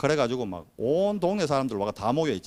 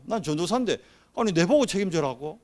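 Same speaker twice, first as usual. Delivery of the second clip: raised, exasperated retort of a wronged junior preacher; indignant protest; 5 semitones higher than usual. Retold or imitated. Junior preacher protests to the pastor, raised and exasperated. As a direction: throw it back in disbelief. Indignant repeat of own quote.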